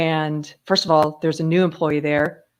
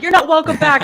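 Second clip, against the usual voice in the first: higher, louder mock banishment; retold scolding; 9 semitones higher, 5 dB louder than usual. Coffee man bans the maskless customer, mock scolding. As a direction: act out throwing a customer out. Acts out man banning her.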